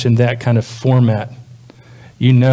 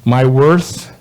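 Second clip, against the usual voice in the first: poem reading. Acted. Reads song lyrics as a poem.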